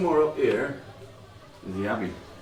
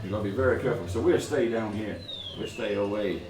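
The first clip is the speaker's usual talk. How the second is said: ship captain voice; 4 dB quieter than usual. Acted. GM voices captain describing island.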